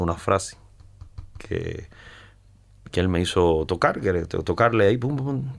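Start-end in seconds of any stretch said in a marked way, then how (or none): 5.0-5.5 soft, higher-pitched "pum pum pum"; imitated guitar notes. Musician showing the host what he played, softly imitated notes. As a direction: lightly mimic plucked notes.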